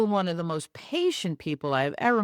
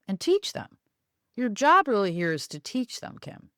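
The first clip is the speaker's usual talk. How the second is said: patient; 3 semitones higher than usual. Retold or imitated. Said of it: "so patient".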